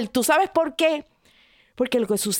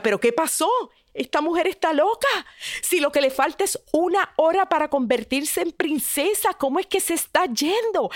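baffled townsfolk; 6 semitones higher than usual. Acted.

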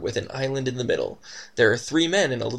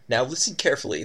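bossy tone; faster than usual. Acted. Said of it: "with a rather bossy tone".

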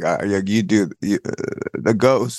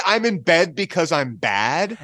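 playful ghost quote; 7 semitones higher than usual. Retold or imitated. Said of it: "he said".

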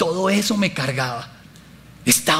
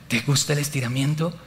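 softer, lower voice of God; gently ask, as if close to the ear; speaking in the ear; 4 semitones lower, 5 dB quieter than usual. Retold or imitated. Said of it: "empieza a hablarme al oído".

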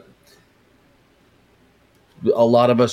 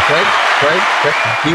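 calling out; 5 semitones higher, 4 dB louder, slower than usual. Real, not acted. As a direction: call the name out loud. Calling out to Craig.

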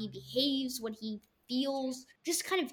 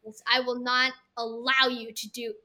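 measured, lightly put-on mid-Atlantic accent; Sheldon's mid-Atlantic accent; 3 dB louder than usual. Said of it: "do it in your Sheldon accent".

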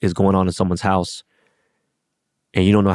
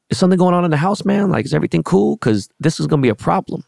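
pointed rude question; 9 semitones higher than usual. Retold or imitated. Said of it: "rude about it".

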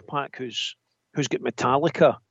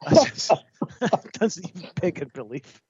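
trying not to laugh; 4 semitones higher than usual. Real, not acted. Giggling through apology.

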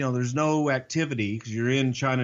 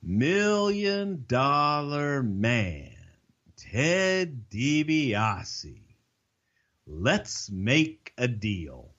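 slow, drawn-out announcer-style voice as the stranger; imitating the stranger; 3 semitones higher, much slower than usual. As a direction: stretch every word like a wrestling promo. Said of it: "and he says".

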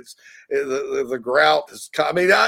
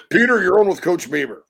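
host voice; 5 semitones higher, 3 dB louder than usual. Retold or imitated. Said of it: "Todd's like".

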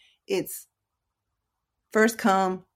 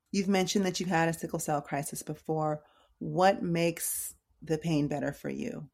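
gently caring, measured question; 4 dB quieter than usual. Shown as a demonstration. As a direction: ask with mild concern, softening slightly and easing into the question. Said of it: "caring voice".

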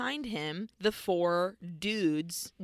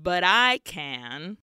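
slow, deliberate warning; slow threat; 2 semitones lower, slower than usual. Acted. Hancock threatens Walker, slow and ominous. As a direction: draw the threat out slowly.

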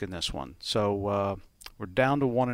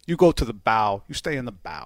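a hint of Italian-American gangster accent; lightly voiced Italian-American mobster accent; Al Pacino impression; 5 dB louder than usual. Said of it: "Were you trying to do, like, an Italian accent?".

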